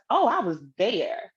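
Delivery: slow, proud, unbothered boast; with his whole chest. Retold or imitated. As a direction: own it like he has nothing to hide. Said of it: "he said it with his whole chest".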